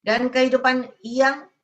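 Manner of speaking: preaching proclamation. Acted. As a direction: proclaim the victorious life over the congregation. (khotbah berapi-api menyatakan berkat)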